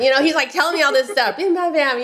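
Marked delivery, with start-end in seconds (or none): 1.4-2.0 put-on higher, playful try at a Bronx accent; half-hearted Bronx guy impression. Bank representative telling her his story, rough Bronx accent. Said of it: "a guy with a heavy Bronx accent".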